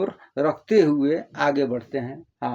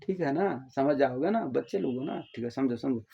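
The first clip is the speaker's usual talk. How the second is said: gentle coaxing; 7 dB quieter than usual. Real, not acted. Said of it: "प्यार से बोल रहा हूँ".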